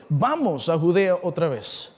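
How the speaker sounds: slow line, Vamos lifted and stretched, then falling; stress on Vamos. Acted. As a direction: draw out Vamos, then drop low. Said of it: "tengo énfasis en la palabra vamos y vas".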